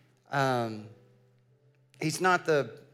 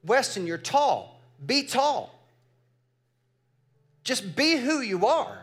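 a bit higher and louder, with a laugh; sideline yell, laughing; 9 semitones higher, 4 dB louder than usual. Retold or imitated. Parents cheering their son from the sideline, laughing mock yell. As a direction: cheer him on from the bench, amused. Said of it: "we're yelling from the sideline".

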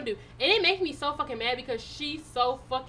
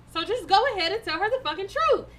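raised, pushing voice, higher; heated demand; 5 semitones higher than usual. Retold or imitated. Telling the cheating man off, voice raised higher. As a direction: push him hard, voice climbing.

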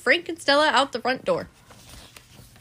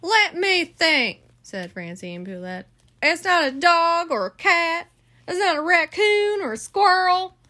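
higher, louder character voices; lightly voiced officer and caller; character dialogue; 7 semitones higher, 3 dB louder than usual. Phone dialogue voiced by parent.

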